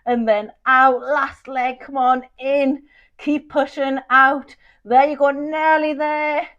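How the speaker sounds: talking through a hard hold; shaky voice. Real, not acted. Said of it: "I don't know how I'm still talking".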